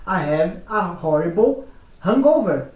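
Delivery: American accent, hangover with a clear H; American English, H sounded. Shown as a demonstration. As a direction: say hangover with a full breathy H. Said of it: "no americano diz".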